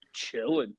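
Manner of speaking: squeaky high voice, imitating a woman; a high mock voice muttered right by her ear. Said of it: "he just says it in her voice".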